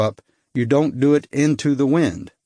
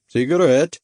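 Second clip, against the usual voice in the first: put-on Baltic accent; 3 semitones higher, 3 dB louder than usual. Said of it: "His accent was hard to place".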